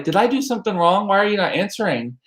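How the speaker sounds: worried plea. Retold or imitated. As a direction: plead lightly, as if fretting over being ignored. Retelling an anxious text to grandmother.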